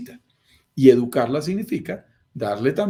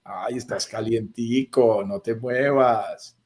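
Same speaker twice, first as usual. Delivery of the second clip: arrullo mimoso; 3 semitones lower, slower than usual. Pretend. La vocecita tienta a quedarse.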